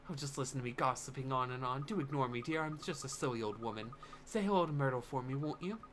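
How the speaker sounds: put-on apologetic old gossip, understated; lightly voiced old neighbour. Old woman excusing her gossip to a child, mildly apologetic. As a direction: lightly play a self-deprecating old lady.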